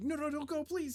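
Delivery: very high-pitched, desperate, begging pleading tone. Voicing a trapped elf woman as help walks away: pleading elf woman. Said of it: "the pleading".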